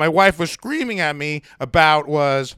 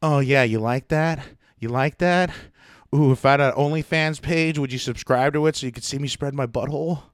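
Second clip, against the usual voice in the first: mock seductive; 2 semitones lower, 4 dB quieter than usual. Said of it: "seductively waved it".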